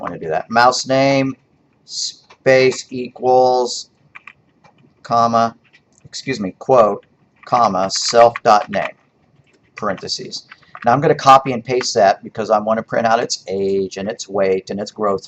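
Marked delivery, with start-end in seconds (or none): 0.5-10.5 slow, spelled-out code dictation; dictating. Shown as a demonstration. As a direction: read each symbol aloud slowly. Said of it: "teacher dictating code to type".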